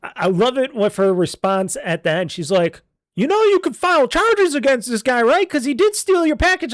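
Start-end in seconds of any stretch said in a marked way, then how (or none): 3.1-6.7 mimicking the lady. Retelling the postal lady's words.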